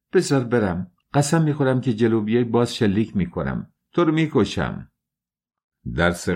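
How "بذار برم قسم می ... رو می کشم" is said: high, pleading threat with a gun; desperate threat. Acted. Dunya, cornered, threatens Svidrigailov in desperate panic. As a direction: beg to leave while threatening, rising in panic. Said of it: "با ناامیدی گفت".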